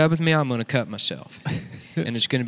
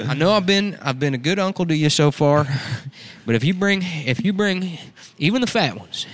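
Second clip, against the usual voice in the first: a hint of a pushy uncle, a bit higher; lightly voiced uncle warning his niece; redneck uncle; 5 semitones higher than usual.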